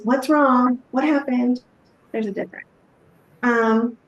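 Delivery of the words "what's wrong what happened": a touch of alarmed concern; worried prying. Shown as a demonstration. Counselor reacting to a teen looking away, mildly alarmed. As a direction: press with mild worry, as if something broke.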